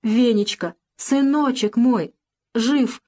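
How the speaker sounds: slow, tender cry of relief; mother holding her son, slowly. Acted. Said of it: "тискали его шею". (нежно и медленно, со слезами радости)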